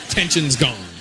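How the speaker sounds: short punchline in an Indian accent; lightly drawn Indian-accented button. Shown as a demonstration. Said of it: "pop in the Indian accent".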